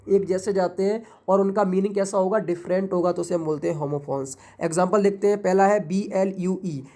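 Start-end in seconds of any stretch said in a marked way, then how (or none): 5.9-6.8 letter by letter, slowly; slow spelling. Shown as a demonstration. Teacher spelling blue for students, slow letter by letter. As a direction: spell it out for the class. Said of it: "लिखा कैसे गया है".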